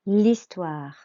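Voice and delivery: L'HISTOIRE repeated clearly without an H; teacher's French model of L'HISTOIRE, H unspoken; silent H. Shown as a demonstration. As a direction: say L'HISTOIRE as "lee-STWAR". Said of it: "you do not pronounce the H".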